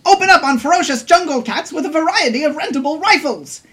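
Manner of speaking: high, bright announcer pitch; radio ad read. Acted. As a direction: sell the zoo like a cheesy radio spot. Reads mock zoo radio ad.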